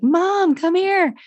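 high, loud call from downstairs. Retold or imitated. Oldest kid calling mom up from downstairs, high and loud. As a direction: yell up to mom from below. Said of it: "I hear my oldest be like".

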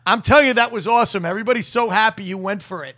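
rushed, eager praise; a hint of an excited fan, quick; gushing, fast. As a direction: tumble it out like a delighted fan. The blonde gushing, retold.

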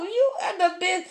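words broken by laughter; giggling through the praise; laughing. Real, not acted. Host laughing while praising her guest.

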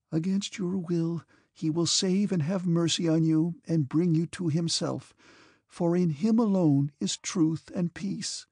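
mild emotional tremble in a prayerful plea; trembling with emotion. Acted. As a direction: bless him with a lightly trembling voice. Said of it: "in a voice trembling with emotion".

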